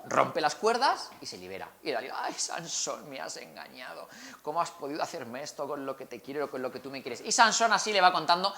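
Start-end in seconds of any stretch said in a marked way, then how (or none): 2.2-7.2 soft melodramatic hurt lament; gasping soap opera drama. Acted. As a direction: play the wounded lover, overdone. Dalila's fake hurt complaint.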